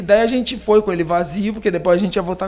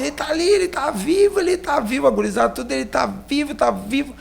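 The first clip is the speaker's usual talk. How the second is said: mock excited shout; 6 semitones higher, faster than usual. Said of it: "eles gritaram assim".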